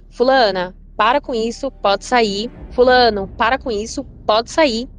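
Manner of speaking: firm call to hiding cousins; calling out firmly. Retold or imitated. Telling cousins to stop, scared.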